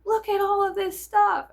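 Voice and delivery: high, loud gushing over the stuff; excited wonder. Retold or imitated. To her, about the shop's gems: high excited gushing. Quoting husband showing the gems.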